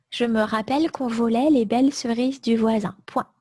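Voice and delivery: dictating. Shown as a demonstration. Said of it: "Je répète tout le texte".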